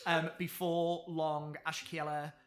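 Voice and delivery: measured, deliberate scene setting; game master narration. Acted. Game master describes the high cleric.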